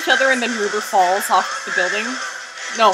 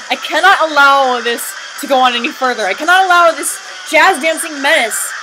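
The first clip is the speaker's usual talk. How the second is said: hammed-up villain rant; 3 semitones higher than usual. Rothbart challenging his rival villain to fight, a hammed-up furious shout. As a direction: rant like a cartoon bad guy calling out a rival.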